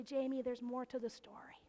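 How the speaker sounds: soft, voiceless whisper. Retold or imitated. God whispering to the pastor, soft voiceless whisper. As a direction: breathe it like God in your ear. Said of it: "I just hear God whisper in my ear".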